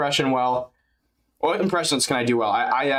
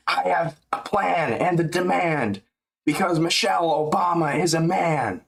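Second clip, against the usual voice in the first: Hulk rhyme voice; 3 semitones higher than usual. Pretend. Rapping corny rhymes for chat, hammed-up Hulk voice. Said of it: "Make up some corny ass Incredible Hulk rhymes".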